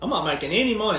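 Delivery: any stressed, falling end. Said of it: "repeated denial, stress shifts".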